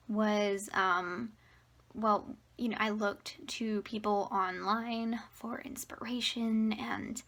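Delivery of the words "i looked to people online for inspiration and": breathless, airy talking; out of breath. Real, not acted. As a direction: speak short of breath. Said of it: "I'm so out of breath just talking".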